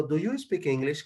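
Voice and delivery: "Do you speak English?" lifted on YOU as a question; change the tone to ask "Do you speak English?"; teacher modelling the asking tune on "Do you speak English?". Shown as a demonstration. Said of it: "cambio el tono de voz al momento de preguntar".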